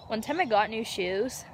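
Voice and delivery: breathless from walking; out of breath, talking while moving. Real, not acted. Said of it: "Why am I so out of breath?".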